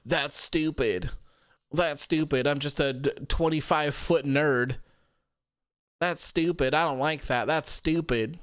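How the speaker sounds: mock crybaby nerd whine; lightly voiced whining big nerd; sulky mock-crying complaint; whiny Braun impression. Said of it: "Braun just continued to cry and said".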